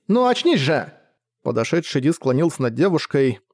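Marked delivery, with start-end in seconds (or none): 0.1-0.9 high frantic cry; desperate plea. A narrator's reading. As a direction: wake her in panic. Panicked over fallen girl.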